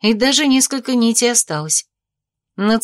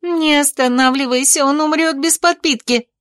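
raised pitch, urgent insistence; higher-pitched stern command; mild growled order; 6 semitones higher than usual. A narrator's reading. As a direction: press her urgently, without shouting. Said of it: "прорычала сестра".

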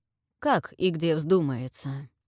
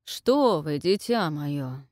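condescending king; 2 semitones lower, slower than usual. Acted. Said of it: "снисходительно пробасил Улькарн".

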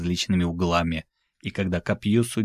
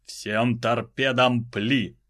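slow firing command; 4 semitones higher, much slower than usual. Acted. Captain orders fire.

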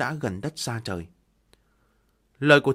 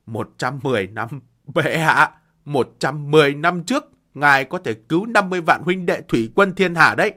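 anguished wail; 7 dB louder than usual. Acted. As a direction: cry out to the emperor. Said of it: "gào khóc".

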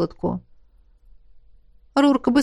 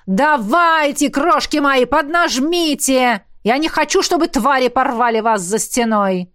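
urging on; 2 semitones higher than usual. Acted. Coach calling to lagging trainees, urging on. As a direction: stretch the words to spur stragglers.

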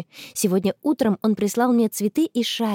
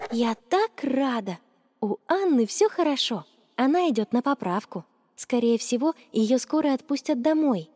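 diary voice; 3 semitones higher than usual. A narrator's reading. Girl writes in her diary about her friend, contentedly musing. Reads the girl's diary entry.

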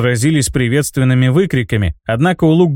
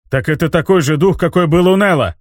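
loud; 4 semitones higher than usual. Acted. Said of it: "Неожиданно громко".

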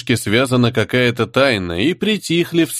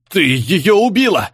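shouted accusation; 7 semitones higher than usual. Acted. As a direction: hurl the accusation across the hall, drawn out. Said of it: "закричал Дебер".

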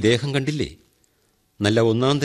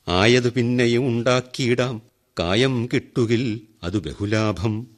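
recited verse; 3 semitones higher than usual. Retold or imitated. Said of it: "എന്ന് കുഞ്ചൻ നമ്പ്യാർ".

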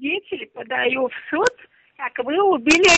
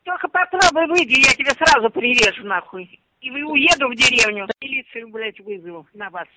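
furious threats; raging at the caller; angry; 2 semitones lower than usual. Real, not acted.

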